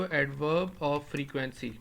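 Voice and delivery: drawn out slowly, adverb of frequency spaced; introducing a term; slow term for notes. Shown as a demonstration. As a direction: lay out adverb of frequency carefully. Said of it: "ان کو آپ کیا بولتے ہو".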